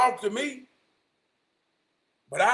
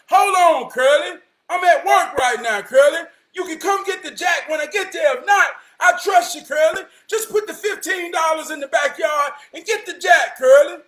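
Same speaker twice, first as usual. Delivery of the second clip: loud, exasperated calling of the name Curly; frustrated yelling; 3 semitones higher, 4 dB louder than usual. Retold or imitated. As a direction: yell it like you're fed up on the phone at work. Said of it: "he was about to get frustrated".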